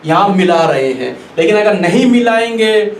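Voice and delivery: ordinary delivery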